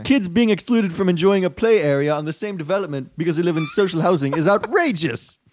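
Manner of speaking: put-on a faint stab at a British accent, drifting Indian; minister's tweet read in a shaky British accent; weak British accent. Reading a minister's tweet aloud, weak British accent. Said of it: "your British accent is not nearly as good".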